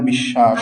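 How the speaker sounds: বিশ্বাস with a long double sh, bish-shash; doubled consonant. Shown as a demonstration. Teacher illustrating the doubling rule, বিশ্বাস as bish-shash. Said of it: "উচ্চারণ হয়ে যাবে দ্বিত্ব".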